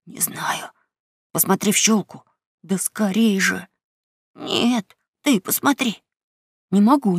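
put-on hushed, scared boys; frightened whisper. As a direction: whisper in terror. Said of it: "прошептал Том".

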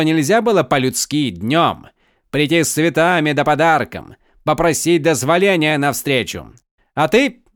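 high, loud jeering noble; mocking young count. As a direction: taunt him, enjoy every insult. Count taunts the captive.

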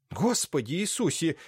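a touch of wailing alarm; mild shocked lament; lamenting cry. A narrator's reading. Aunt hears the count was shot, mild lament. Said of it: "запричитала Ирина Лукинишна".

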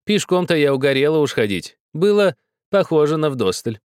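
put-on high, pressing old woman's voice; insistent old woman. A narrator's reading. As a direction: insist like a stern grandmother.

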